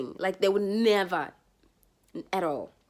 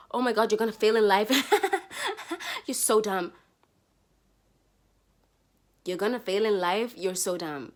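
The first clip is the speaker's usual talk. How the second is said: mocking taunt. Mean friend quoted.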